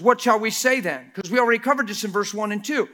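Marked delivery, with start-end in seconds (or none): 0.0-1.1 reading Paul. Acted. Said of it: "watch what Paul says".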